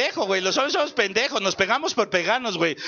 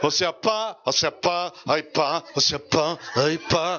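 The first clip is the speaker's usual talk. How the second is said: lower, drawn-out pleading daughter voice; a sulky girl begging her dad; whiny daughter; 6 semitones lower, slower than usual. Retold or imitated.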